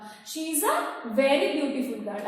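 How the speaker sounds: each word of the example drawn out slowly; slow dictation. Shown as a demonstration. Teacher to her students, reading the example sentence slowly. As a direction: read the sentence slowly for the class to copy. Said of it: "teacher dictating example".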